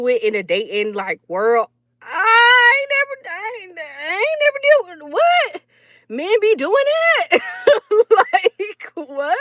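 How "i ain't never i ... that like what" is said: high, incredulous squeal of shock; high shocked voice, hammed-up; mock disbelief. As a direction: act scandalized by what men do. Shocked at dating world.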